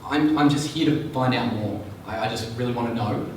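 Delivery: curious, probing tone with a little lift on the questions; curious calculator. Shown as a demonstration. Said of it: "The calculator vocal archetype is very much one of".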